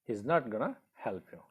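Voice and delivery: "He's" and "gonna" both contracted; contracted form. Shown as a demonstration. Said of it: "but in contracted form we use".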